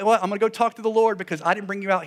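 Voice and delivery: quick, high, defensive retort; Moses. Acted. Preacher as a leader disowning the exodus, high and hurried. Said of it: "'Cause Moses says".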